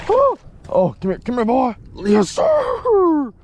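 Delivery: high, thrilled coaxing; excited calling. Real, not acted. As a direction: call the fish in with glee. Landing another fish, cheering.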